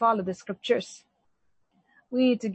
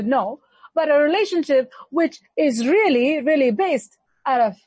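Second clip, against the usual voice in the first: rising preaching; 4 semitones higher, 4 dB louder than usual. Acted. Preaching rises on legalistic, faithless.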